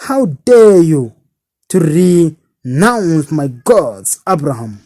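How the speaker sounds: a father's haughty anger; rude, arrogant. Acted. Father rebukes Abraham, rude and indignant. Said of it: "replied in rude tone".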